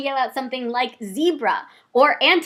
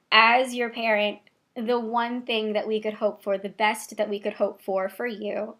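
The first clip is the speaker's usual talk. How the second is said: soft, heartfelt retelling of parental advice; tender, sincere; 5 dB quieter than usual. Retold or imitated. Mother telling her child what she hopes, retold tenderly and softly.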